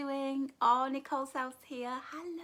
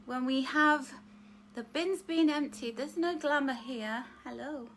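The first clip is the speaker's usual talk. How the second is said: ordinary talk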